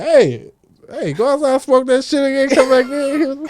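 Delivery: high-pitched, mock-urgent order; bandmate imitation. Teasing bandmate sending him back outside, high mock command. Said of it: "He was like".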